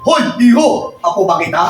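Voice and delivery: lightly voiced forgetful grandmother. Grandmother asks a passing boy if he's her grandson, lightly acted confusion. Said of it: "lagi tinatanong".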